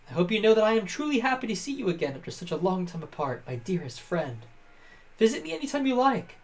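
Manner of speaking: lightly voiced noble game character, measured phrasing; courteous Zora friend. Game player voices a Zora friend explaining his duty to Link, courteous and earnest. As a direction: play an earnest, formal old friend.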